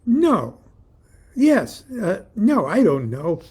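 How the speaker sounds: high, loud flustered answer; distorted voice as if through a CB speaker; crackling inner voice. A narrator's reading. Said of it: "crackled distortedly as if I was hearing it".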